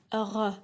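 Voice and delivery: throaty French R; R rolled in the throat, French style. Shown as a demonstration. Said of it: "You say it like".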